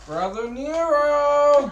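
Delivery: booming, slow trailer announcer; movie trailer voice. Retold or imitated. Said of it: "sound like the movie trailer voiceover guy".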